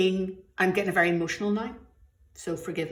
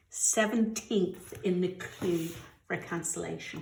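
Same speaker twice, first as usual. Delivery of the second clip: repeated softer, dwelling on Seventeenth in disbelief; quiet disbelief; 7 dB quieter than usual. Real, not acted. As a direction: let it sink in, quieter, stunned by Seventeenth. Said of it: "Can you believe it?".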